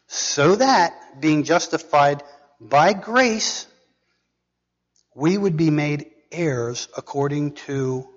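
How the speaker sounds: measured, emphatic reading of scripture. Acted. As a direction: proclaim the verse phrase by phrase. Reads scripture aloud to congregation.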